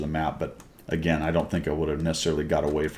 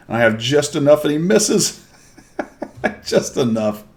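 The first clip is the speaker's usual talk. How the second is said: high, gleeful voice breaking into laughs; laughing relief; 8 semitones higher, 4 dB louder than usual. Real, not acted. Player telling viewers the enemy misses, high and laughing. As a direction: crack up in delight, pitch jumping up.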